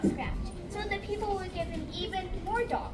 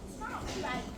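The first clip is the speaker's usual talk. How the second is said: softer, lightly muttered; a quiet grumble to oneself; muttering to himself; 2 semitones higher, 5 dB quieter than usual. A narrator's reading. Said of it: "he muttered to himself".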